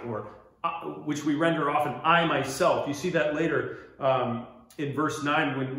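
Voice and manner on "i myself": loud, punched "I" in "I myself"; emphatic I. Shown as a demonstration. Preacher showing the Greek emphasis, stressed "I". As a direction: stress "I myself" firmly and loudly. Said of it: "it has an emphatic".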